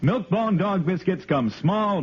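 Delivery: ordinary talk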